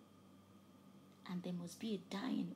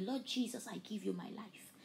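prayer. Shown as a demonstration. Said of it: "say these seven short words with me".

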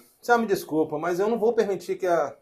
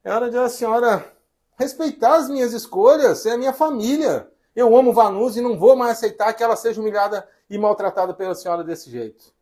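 raised, insistent defiance; firm assertion; 4 semitones higher than usual. Acted. Son demanding mother respect his family, raised and insistent. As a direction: press each demand with a higher voice.

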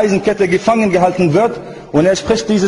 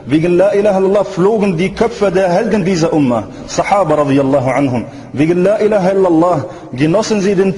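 rolling, insistent sermon cadence; impassioned preaching. Real, not acted. Preacher tells the faithful the weight of the creed, fervent preaching. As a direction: build each repeated phrase like a fervent preacher.

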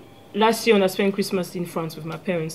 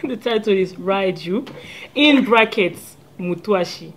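measured repeat with a pause between parts; said slowly. Shown as a demonstration. Singer repeats her song title for the host, slowly. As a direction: spell it out slowly for the listener. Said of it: "Can we say that again slowly".

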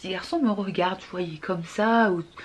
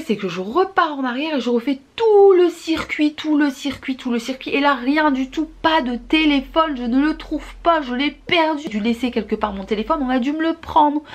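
panicked; 5 semitones higher, 4 dB louder than usual. Retold or imitated. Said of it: "j'étais dans un état".

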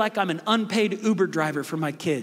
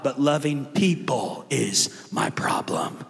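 whispered confession; 5 semitones lower, slower than usual. Acted. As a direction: let it slip out as a whispered secret. Confessing trouble loving people.

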